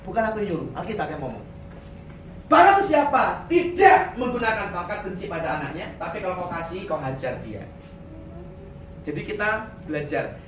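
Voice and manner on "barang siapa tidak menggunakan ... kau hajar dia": shouted verse. Acted. Repeats verse, shouted opening.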